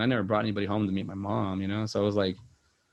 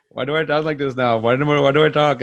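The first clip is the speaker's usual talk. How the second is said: imitated cartoon Indian accent, higher and louder; playful mock-Indian accent, raised voice; Apu; 4 semitones higher, 8 dB louder than usual. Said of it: "kinda Apu accent".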